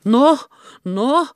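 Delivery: eager No, no, high and loud; enthusiastic. Acted. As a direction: cheer her on heartily. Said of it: "innostui Hannes".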